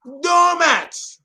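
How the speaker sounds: high quick echo of the insult; a short high mock call; mock jeer. Repeated jeer.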